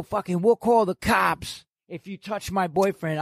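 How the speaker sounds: yelled threat in a put-on girlfriend voice; imitating the girlfriend yelling she'll call the cops; mock girlfriend shout. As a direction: shout it like his angry girlfriend. Girlfriend threatening him, retold.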